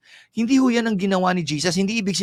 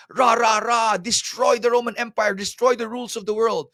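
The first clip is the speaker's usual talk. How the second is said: hammed-up crowd chant against Rome; mock war cry; 3 semitones higher than usual. Crowd's war-cry hope for Messiah. (pakunwaring sigaw ng nagrarally)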